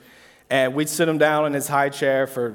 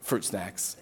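put-on toddler voice; 6 semitones lower, 11 dB quieter than usual. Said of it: "he looked at me and said".

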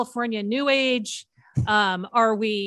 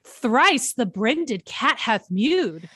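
full Shakespeare witches. Acted. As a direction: chant it over the cauldron like a Shakespeare witch. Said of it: "let's do our full Shakespeare".

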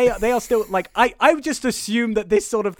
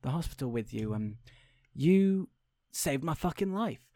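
much softer, earnest stranger; hushed thanks; 3 semitones lower, 8 dB quieter than usual. Retold or imitated. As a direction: say it softly, from the heart. Stranger thanks Kim at salon.

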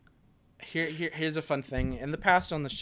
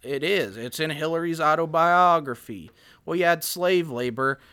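Bill Clinton impression; 2 semitones higher, 6 dB louder than usual. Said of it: "Oh, Bill Clinton".

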